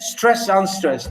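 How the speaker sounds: slow, stress said strong and unstress weaker; naming the beats. Shown as a demonstration. Teacher demonstrating a trochaic foot to the class, slowly. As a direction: spell out the meter slowly.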